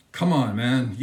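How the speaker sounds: scoffing laugh at the absurd idea; incredulous chuckle. Real, not acted. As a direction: laugh it off in disbelief. Laughs at the comparison.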